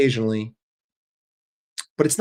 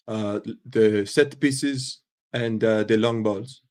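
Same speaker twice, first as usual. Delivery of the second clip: Arnie Slot; 2 semitones lower, slower than usual. Acted. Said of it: "Arnie Slot".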